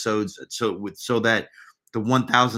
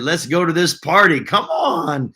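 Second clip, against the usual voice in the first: imitated party excitement; 4 semitones higher, 4 dB louder than usual. Reads viewer's party invitation aloud.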